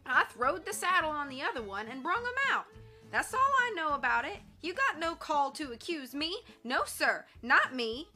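Shorty defending himself against Tex; indignant protest. Acted. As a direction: refuse the blame loudly. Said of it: "Shorty put in".

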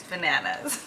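breaking into giggles; soft laugh takes over the last word; can't keep a straight face. Real, not acted. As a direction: crack up at yourself. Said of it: "I cannot take myself seriously".

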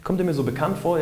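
high-pitched dawning recognition, imitated; pleasantly puzzled realisation. Woman finding the stranger oddly familiar, mildly surprised. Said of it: "dass sie einfach merkt".

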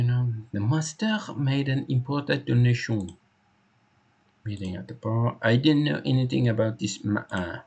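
put-on French accent slipping towards British; attempted French accent. Hector telling the inspector about the master, wobbly French accent. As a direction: try a light French accent and let it slip. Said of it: "that's not French, that's British".

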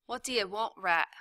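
loud, rough demand; gruff prisoner. A narrator's reading. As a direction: bark at the rat.

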